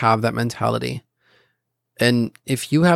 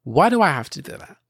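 upset whining. Retold or imitated. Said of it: "I would get upset and I'd be like".

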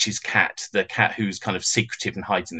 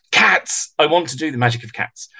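excited; 4 semitones higher than usual. Retold or imitated. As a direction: blurt it out with delight. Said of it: "immediately replied".

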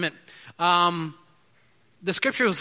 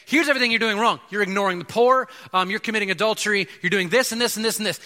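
bashing rebuke; 3 semitones higher, faster than usual. Retold or imitated. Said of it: "the prophets would stand up and bash this king".

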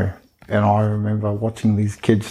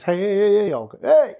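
calling for attention; 11 semitones higher than usual. Shown as a demonstration. Teacher calling out to get people's attention. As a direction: call out to get the room's attention. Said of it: "Just simply getting someone's attention like that".

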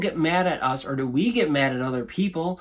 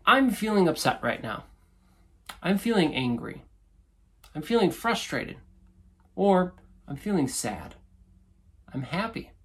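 calm, plain statements of feeling; 3 semitones higher than usual. Shown as a demonstration. Coach showing how to share feelings, calm. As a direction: state each feeling simply. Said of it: "You're just stating".

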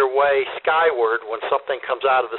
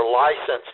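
licensed hit firmly as the key word; weight the word licensed; stress on licensed; 3 semitones lower than usual. Real, not acted. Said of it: "I emphasize the word licensed".

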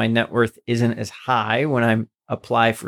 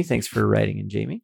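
tone contradicting words; 3 semitones lower, 3 dB quieter than usual. Real, not acted. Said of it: "You don't sound very excited".

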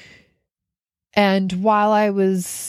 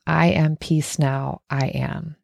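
breathing affirmation; slower than usual. Shown as a demonstration. Coach guiding the breath out through the mouth, slow affirmation. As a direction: let the exhale words sink away slowly. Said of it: "Out through the mouth".

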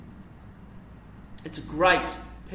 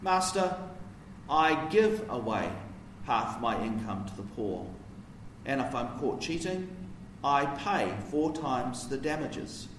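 hesitant, halting apology with a softer voice; stammered apology; 3 dB quieter than usual. Acted. Zacchaeus stammering his apology to Jesus, halting and apologetic. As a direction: apologise haltingly, stunned, to the master. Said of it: "He stammered apologetically".

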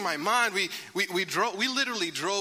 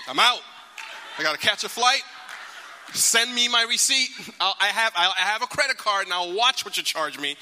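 fed-up declaration. Retold or imitated. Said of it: "I'm like".

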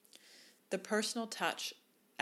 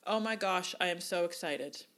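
excited sign-off; 4 dB louder than usual. Shown as a demonstration. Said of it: "simply say".

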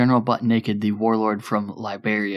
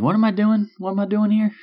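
mock panic; 10 semitones higher, 3 dB louder than usual. Panicking soldier facing naked foes.

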